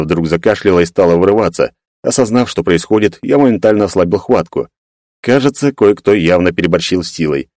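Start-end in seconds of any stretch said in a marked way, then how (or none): none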